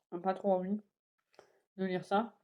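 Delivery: talking with a mouth full of breakfast. Real, not acted. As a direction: speak through a mouthful of food. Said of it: "Je parle la bouche pleine".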